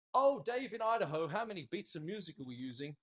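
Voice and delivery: mock call-out to a far-off student; playful calling out. Teacher calling to a distant student, playfully calling out. Calls out to imagined online student.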